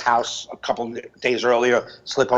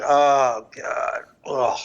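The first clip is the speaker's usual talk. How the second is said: mock morning moan; much slower than usual. Shown as a demonstration. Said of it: "like that".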